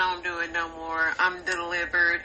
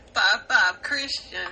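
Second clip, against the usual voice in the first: loud mock Californian "Five, five"; calling it out in a hammed-up California accent; imitating the clip's California accent; 3 semitones higher, 5 dB louder than usual. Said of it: "California accents are very funny".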